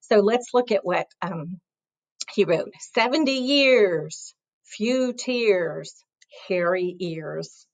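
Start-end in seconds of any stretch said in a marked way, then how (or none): 2.9-7.7 slow rhyming read. Shown as a demonstration. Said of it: "that's kind of funny".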